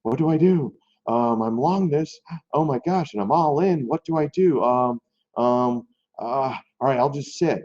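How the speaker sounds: hammed-up panicked dithering; mock panic. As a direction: play a frozen trader losing his nerve. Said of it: "like a deer in headlights going".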